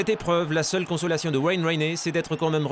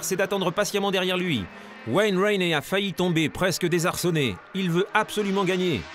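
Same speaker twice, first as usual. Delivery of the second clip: live race play-by-play; motorsport commentator; 3 semitones higher than usual. Acted. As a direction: call the race as it happens.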